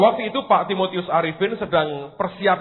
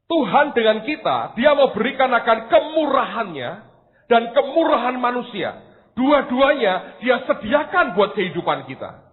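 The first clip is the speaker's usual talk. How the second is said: raised, earnest sermon delivery; emphatic preaching; 4 semitones higher than usual. Real, not acted. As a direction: drive the lesson home to the congregation.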